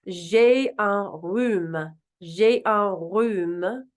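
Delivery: J'ai un rhume very slowly as zhay uh rhoom; slow French. Shown as a demonstration. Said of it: "meaning I have a cold".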